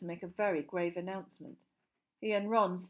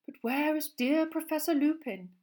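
misty seer; 9 semitones higher, 6 dB louder than usual. A narrator's reading.

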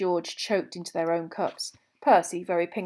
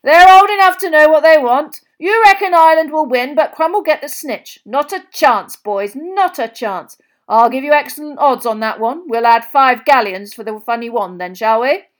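excited, loud and high betting man; excité, excited; 7 semitones higher, 15 dB louder than usual. A narrator's reading. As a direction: call out the wager at full volume, high-pitched. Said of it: "rattling his pockets excitedly".

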